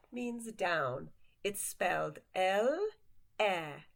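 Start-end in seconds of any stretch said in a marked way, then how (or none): none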